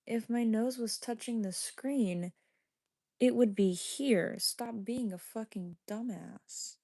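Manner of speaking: slow, drawn-out irritated explanation; condescending scolding. Real, not acted. Streamer correcting a viewer's silly claim, condescending. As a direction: spell it out slowly, as if to a fool.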